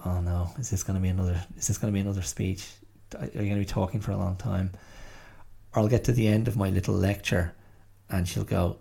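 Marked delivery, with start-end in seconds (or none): 0.1-4.7 quick, understated imitation of an exasperated daughter; mock exasperation. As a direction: rattle it off, lightly imitating an eye-rolling teenage complaint. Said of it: "She just rolls her eyes".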